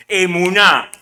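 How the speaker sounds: firm, clear "emuná" with a strong final "ná"; model pronunciation. Shown as a demonstration. Preacher drills the congregation on the Hebrew term, firmly modelled "emuná". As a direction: drill the word "emuná" for learners. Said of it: "Repítalo conmigo".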